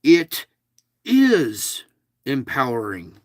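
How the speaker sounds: "It... IS... empowering", punch the middle word, then drop; stress on IS. Shown as a demonstration. Host correcting a reading for the audience, stress on IS. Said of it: "Inflection on the is".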